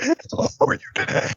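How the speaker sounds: high, slow inhaled speech; speaking on the in-breath. Shown as a demonstration. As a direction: say it while breathing in, gasping. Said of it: "talking, like, while breathing in".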